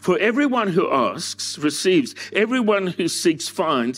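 measured, deliberate scripture quote; scripture reading. Acted. Preacher quoting Jesus to the congregation.

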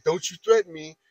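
retold yelling. Coworker stepping up to a colleague, mild mock yell. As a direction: imitate his confrontational warning, short of shouting. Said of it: "where he's yelling at us".

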